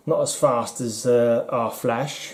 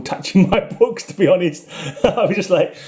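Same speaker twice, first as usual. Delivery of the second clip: laughing; 5 semitones higher than usual. Real, not acted. Laughing about hating people touching books.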